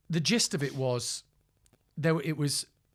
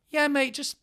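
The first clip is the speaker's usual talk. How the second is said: strained polite call; 11 semitones higher than usual. Retold or imitated. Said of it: "I go".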